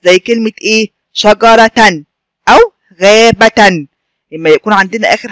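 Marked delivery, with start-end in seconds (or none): 1.1-2.0 "شجرة" ending in a clear "-tan"; tanween example. Shown as a demonstration. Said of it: "الحرف المنون دوت تاء مربوطة". 3.0-3.9 "غابة" slowly, ending in a clear "-tan"; tanween example. Shown as a demonstration. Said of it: "الحرف المنون دوت تاء مربوطة".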